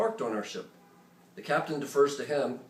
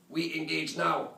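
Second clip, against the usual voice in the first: put-on slow, clipped-free heavy Arabic accent, higher; brief accented reply; 5 semitones higher, slower than usual. Saudi radio operator answering the American ship, in a slow Arabic accent. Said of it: "their response is brief and accented".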